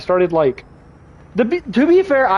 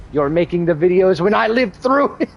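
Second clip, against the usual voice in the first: put-on old grandpa. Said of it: "I feel like a grandpa".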